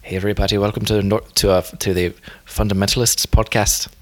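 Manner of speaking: unconvincing Northern Irish accent; Northern Irish accent attempt. Shown as a demonstration. Host attempts the podcast welcome on request, shaky Northern Irish accent. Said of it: "can you do it in a Northern Irish accent".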